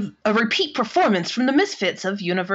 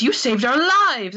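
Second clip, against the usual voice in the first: higher, overdone grateful cry; mock gushing; 4 semitones higher, 4 dB louder than usual. Host voicing Jem thanking her rivals, mock gushing. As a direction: gush it, swelling on the last word.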